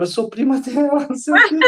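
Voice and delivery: light retold laugh while answering; laughing reply. Psychologist answering the patient, laughing.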